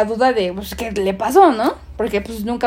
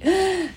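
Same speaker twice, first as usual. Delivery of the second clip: terrified gasp; 7 semitones higher, 5 dB quieter than usual. Retold or imitated. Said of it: "a gritar así de un terror, así".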